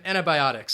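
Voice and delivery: antibiotics with a clear BY in the middle; stress on bi. Shown as a demonstration. Teacher showing Ibrahim antibiotics, stress on bi. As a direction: lean on the bi of antibiotics. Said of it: "that stress is on that bi".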